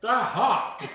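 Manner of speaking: laughing through the words; cracking up mid-word. Real, not acted. Laughing at burned fingers.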